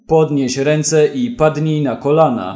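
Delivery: "Podnieś ręce" barked loud, falling; shouted order. Acted. Ashur shouts at the policeman, loud order. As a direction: shout at the cop to kneel. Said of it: "krzyknął Ashur".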